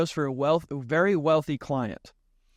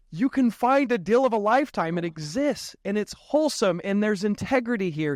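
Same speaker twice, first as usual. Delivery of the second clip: higher, amazed retold revelation; mind blown; 5 semitones higher than usual. First-time investor realising such deals exist, amazed. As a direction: marvel at it as a sudden revelation. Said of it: "in my mind, it's just, like, blown".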